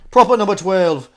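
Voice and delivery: loud, high mock Irish accent; Conor McGregor. Host naming the whiskey brand, mock Irish accent. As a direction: punch out the brand in a comic brogue. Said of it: "my impression of him".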